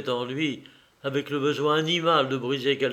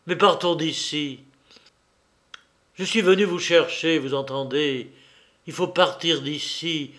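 Stéphane cuts in, a raised urgent cry; urgent outburst. Acted. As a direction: blurt out the secret in a rush. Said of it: "Il l'interrompit brutalement, jetant son secret dans un cri".

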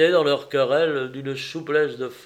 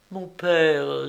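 slightly raised daughter's voice; earnest daughter; 3 semitones higher than usual. Acted. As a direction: gently address a father as his daughter. Narrator voices the pleading daughter.

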